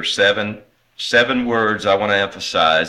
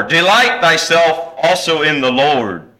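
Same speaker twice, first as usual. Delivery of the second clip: "Delight" pushed out high in the verse; stress on Delight; 5 semitones higher, 4 dB louder than usual. Shown as a demonstration. Preacher emphasizes the third word from verse four, "Delight" stressed. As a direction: lean hard on "Delight". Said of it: "Third word I want to emphasize is delight".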